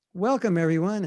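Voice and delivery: imitated New York devotee greeting; New York American accent. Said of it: "it's very New York, very American".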